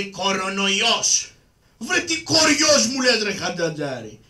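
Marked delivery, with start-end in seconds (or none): 1.8-4.2 mock outraged shout. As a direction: shout back at the silly word. Karagiozis mishears coronavirus as bug.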